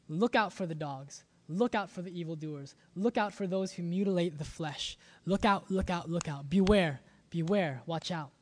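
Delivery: mildly harsh, clipped warnings; harsh staccato warning. Acted. Preacher reading Paul's warning to the church, harsh staccato. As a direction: read it as a stern warning, beat by beat. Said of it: "change to a very harsh, uh, staccato kind of rhythm".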